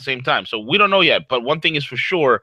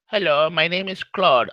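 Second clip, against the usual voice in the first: lightly put-on Indian accent, higher and slow; imitated Indian accent; 6 semitones higher than usual. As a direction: mimic the call-centre agent in a mild Indian accent. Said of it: "you have a terrible Indian accent".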